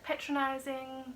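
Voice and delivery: "patronizing" with a long "pay" first syllable; odd pronunciation. Real, not acted. Vlogger slips on a word, "patronizing" said as PAY-tronizing. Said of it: "why did I say that?".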